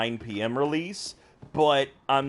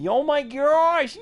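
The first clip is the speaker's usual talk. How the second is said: high, squealing burst of laughter; laughing hard; slower than usual. Real, not acted. Streamer cracking up at a friend's joke, laughing hard.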